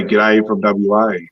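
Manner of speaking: put-on Australian accent, greeting; slow Aussie greeting. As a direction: greet like a West Australian, drawn out. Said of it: "we used to say".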